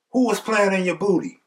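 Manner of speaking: high-pitched mocking question; taunting. Cellmate asks Lyle in his face, mocking taunt.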